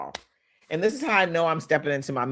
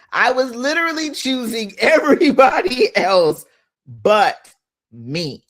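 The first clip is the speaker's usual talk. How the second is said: laughing; 8 semitones higher, 7 dB louder than usual. Real, not acted. Laughs at herself, loud.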